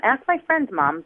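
put-on a teen protesting to mom that they don't smoke; pleading teenager. Teen denying smoking to mother.

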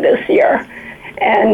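breaking into a tearful whisper; tears catching the words; teary-eyed. Real, not acted. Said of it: "I'm getting teary-eyed".

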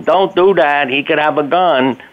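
put-on a light replay of the kids shouting a warning; mock kids yelling. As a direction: retell the kids' panicked plea. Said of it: "our kids yelling".

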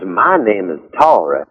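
a lightly voiced Southern belle introducing herself; southern accent. Tori sauntering in, introducing herself in a Southern accent. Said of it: "she has the southern accent".

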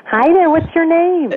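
high, slow, gentle greeting. Real, not acted. Author greets a third grader.

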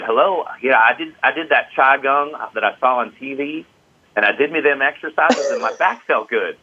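put-on a light Midwestern American accent; lightly imitating a Midwest caller. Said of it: "to do a Midwest accent".

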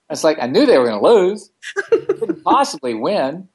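talking through laughter; amused, laughing through the story. Real, not acted. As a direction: giggle while telling it. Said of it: "so funny".

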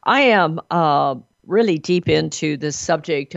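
hoarse gravelly voice from a cold. Real, not acted. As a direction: talk through a rough, gravelly throat. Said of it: "I'm sorry about my gravelly voice today".

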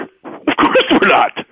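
put-on slow, sly whisper as a scheming teen; mock hushed plotting; conspiratorial whisper. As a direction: whisper it like a secret plan. Boys scheming, retold teen scene.

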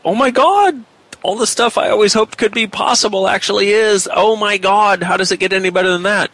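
high-pitched, thrilled exclamation; excited. Retold or imitated. Woman reliving the moment everything she hoped for proved possible, excited. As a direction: gush in amazed discovery, pitch held high. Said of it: "I sound kind of excited when I say that".

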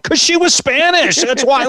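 high, loud, incredulous comeback; mock outraged reply; exasperated retort. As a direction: act baffled by the question. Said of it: "I'm like".

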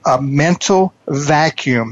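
slow, deliberate, spelling each word out; slow it right down so it sinks in; slowly. Shown as a demonstration. Coach to his guest Casey, slow and deliberate. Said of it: "I'm gonna say this very slowly for you".

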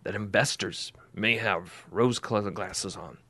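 slow announcer read; radio voice. Acted. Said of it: "I'm gonna put my radio voice on".

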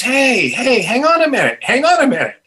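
retold cop calling out; calling after someone. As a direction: call him back, voice lifted. Cop calls after departing teller.

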